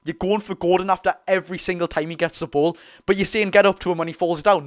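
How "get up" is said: imitating an angry player, louder; mock angry order. Imitating Hume shouting at fallen Gordon, mock angry. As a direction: briefly act out a cross command. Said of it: "he's acted angry to Gordon".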